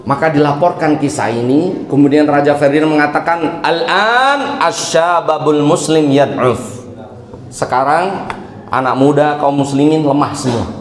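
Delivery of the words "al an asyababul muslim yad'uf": king's verdict. Acted. King Ferdinand declares.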